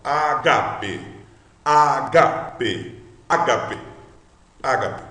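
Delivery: Ágape com o GA forte; stress on GA. Shown as a demonstration. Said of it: "Veja que o Gá é a sílaba mais forte". (ênfase na sílaba Gá de Ágape)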